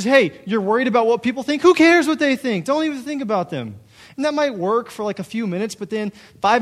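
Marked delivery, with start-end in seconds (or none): 0.0-3.8 much higher and louder, breezy dismissal; mock brush-off. Mocking advice to ignore what people think, loud and breezy. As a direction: wave their worry away, mockingly. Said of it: "It says".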